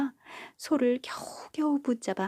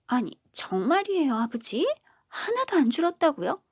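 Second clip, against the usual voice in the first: higher, louder disbelieving cry, rising; shocked daughter; 7 semitones higher, 4 dB louder than usual. Acted. Eldest daughter hearing the trousers weren't shortened, shocked high cry. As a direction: gasp it out in disbelief, climbing high.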